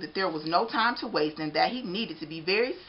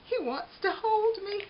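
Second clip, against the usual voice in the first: donut character voice. Acted. Arnie's thought.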